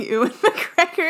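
"Ewan" as OO-en, laughing through it; stubborn mispronunciation. Shown as a demonstration. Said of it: "I'm gonna keep saying".

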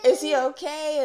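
loud, high acted worry; retold worry. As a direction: replay an alarmed mother's question. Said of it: "freaking out and just being like".

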